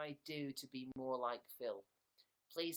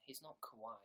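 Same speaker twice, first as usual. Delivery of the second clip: ordinary delivery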